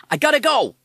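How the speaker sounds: high, loud hurried American parrot; urgent cry. Acted. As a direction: blurt it out in a rush. Parrot hears footsteps, must flee.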